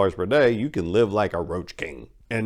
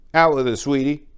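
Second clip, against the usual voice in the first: louder, higher, pushy clerk voice; condescending office clerk, louder and higher; impatient clerk; 7 semitones higher, 6 dB louder than usual. Acted. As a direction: hurry her up with fake sweetness.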